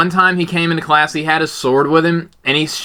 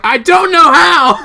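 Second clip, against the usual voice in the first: high, loud, drawn-out comic wail; flustered mock yell; 13 semitones higher, 6 dB louder than usual. Co-host imitating his friend's Discord reply, flustered yell. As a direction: imitate a helpless friend yelling.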